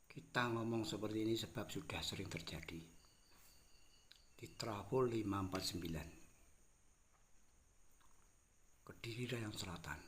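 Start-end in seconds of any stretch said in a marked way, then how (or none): 4.4-10.0 talking round a cigarette; words through a cigarette; cigarette in mouth. Real, not acted. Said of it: "aku sambil merokok".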